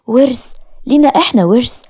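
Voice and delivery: can't believe the word ورث; shocked. Acted. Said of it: "وأنا تحت صدمتي".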